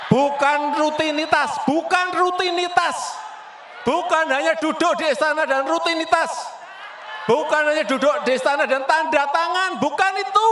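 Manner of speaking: forceful, rising rally shout; emphatic shout. Real, not acted. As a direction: hammer each rejection home. Emphatic rally speech rejection.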